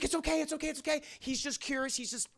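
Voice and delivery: high-pitched soothing chatter; calm a nervous friend and a shy child spirit; acted grandmotherly fussing; reassuring grandma.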